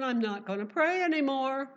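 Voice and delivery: hammed-up Daniel giving up on prayer; mock panic. Preacher voices Daniel's imagined fear.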